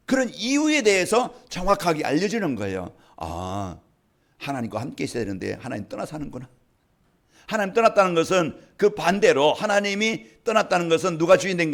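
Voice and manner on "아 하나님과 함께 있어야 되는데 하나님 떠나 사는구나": softly voiced dawning insight; hushed realisation. Preacher voicing someone who sees they left God, quiet realisation. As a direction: drop low and soft, as if realising it.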